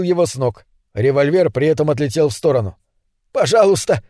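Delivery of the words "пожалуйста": frightened begging, voice up high; stammering plea. Acted. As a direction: plead in panic. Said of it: "запинаясь, умолял Свансон". (испуганная мольба)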